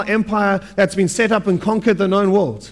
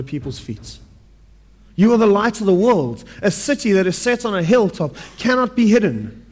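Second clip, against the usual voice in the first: scripture reading. Acted. Reads scripture passage aloud.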